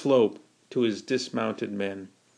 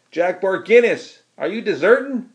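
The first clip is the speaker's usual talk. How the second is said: screamed reproach; 7 semitones higher, 4 dB louder than usual. A narrator's reading. Brother accusing Jack of deserting, screaming. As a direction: yell after him in outrage. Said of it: "screamed Kelly".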